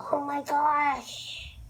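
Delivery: slow, high, dreamy admiration; swooning. Real, not acted. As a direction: melt over how pretty. Admiring the look.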